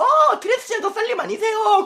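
high, giggly fan recognising her; excited fan voice. Pretend. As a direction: squeal like a thrilled stranger. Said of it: "누가 와가지고". (흥분한 팬 목소리)

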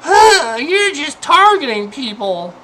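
high sneering mock voice; a hammed-up snide retort; mocking the community. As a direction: mimic the dismissive crowd. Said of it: "the majority of the community says".

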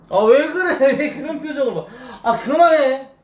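flustered laughing shout; laughing protest. Real, not acted. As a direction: laugh while telling her to stop. Flustered laughing at her face.

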